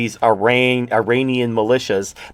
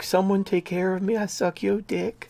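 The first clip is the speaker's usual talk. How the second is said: mocking begging voice, softer and higher; mock pleading woman; 6 semitones higher, 9 dB quieter than usual. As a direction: sneer it as a breathless, submissive plea, much softer. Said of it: "and be like".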